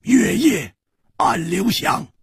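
slow, ringing verse recital; poem recitation. Acted. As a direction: intone it phrase by phrase, pitch climbing high. Recites the couplet. (抑扬顿挫地吟诵诗句)

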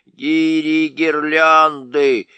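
loud, slow angry dwarf curse. A narrator's reading. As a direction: curse him out from underneath. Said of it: "раздался сердитый голос".

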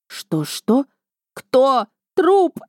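can't believe what she hears; shocked disbelief. A narrator's reading. Narrator stunned by the news on the phone, shocked and high.

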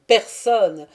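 « personne » crié bien plus fort, intonation descendante; « personne » lancé comme un défi, plus fort; répétition obstinée, plus forte. Acted. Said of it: "répéta-t-il obstinément". (« personne » martelé avec force)

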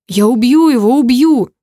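loud growled threat from the brother. A narrator's reading. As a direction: snarl it out, ready to kill. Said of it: "прорычал Вовка".

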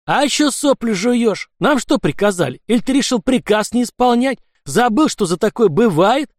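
rough bullying threat; pressing angrily. Acted. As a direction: lean on the commissar with threats. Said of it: "Продолжал наседать анархист".

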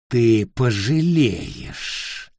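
slow menacing witch threat; menacing hiss. Acted. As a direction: drag out the threat darkly.

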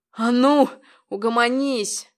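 loud, winded command; panting order. A narrator's reading. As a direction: bark it while struggling. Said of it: "сопел он".

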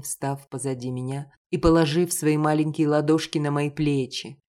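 ordinary delivery, nothing marked

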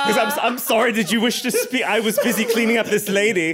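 giggling gentleman; laughing in character. Acted. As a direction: stay in the voice while cracking up. Soldier voice, laughing.

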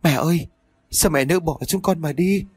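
a hint of a daughter-in-law pretending to wail; lightly voiced mock grief; fake wailing. A narrator's reading. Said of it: "cũng giả bộ gào lên".

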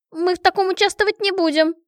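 high, loud disguised squeak; squeaky voice. A narrator's reading. Refusing the king in a disguised voice: high squeak. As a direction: keep the fake squeak going. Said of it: "сказала я писклявым голосом".

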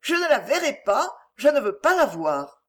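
mechanical repetition. A narrator's reading. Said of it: "répétant machinalement".

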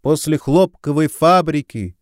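high-pitched calling voice; shouting back. A narrator's reading. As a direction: call directions back across a distance. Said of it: "закричала ему в ответ жена подмастерья".

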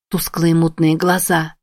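plain reading voice

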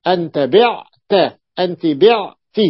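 slow demo. Shown as a demonstration. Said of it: "أقول".

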